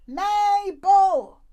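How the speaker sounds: stern mum calling. Retold or imitated. Mum calling the child upstairs, loud and stern. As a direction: call like you mean business. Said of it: "in her I mean business voice".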